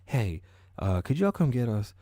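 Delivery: scared caller. Retold or imitated. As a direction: plead on the phone, rattled. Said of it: "the couple called nine one one".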